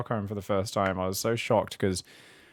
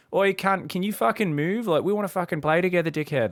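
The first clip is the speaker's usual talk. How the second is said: hammed-up yobbo kid, higher and louder; mock an aggressive Australian teen shouting; a cheeky higher-pitched Aussie brat yelling; rude Aussie kid; 8 semitones higher, 4 dB louder than usual. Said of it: "this is a kid in Australia".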